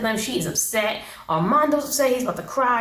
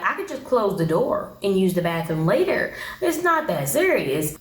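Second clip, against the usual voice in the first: ordinary talk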